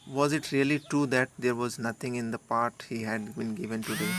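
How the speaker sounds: measured storybook read-aloud; slow story reading. Acted. Teacher reading the story text slowly to students. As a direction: read the line out slowly and deliberately.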